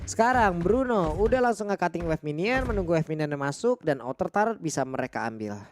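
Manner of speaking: usual speaking voice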